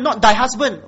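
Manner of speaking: loud, emphatic "not thy husband"; stress on husband. Shown as a demonstration. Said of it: "Okay, take note".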